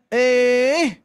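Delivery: put-on scolding a child. Mother scolding her child with a sharp "Eh.". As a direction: snap "Eh." at a child to stop them. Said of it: "salah satunya misalkan teguran".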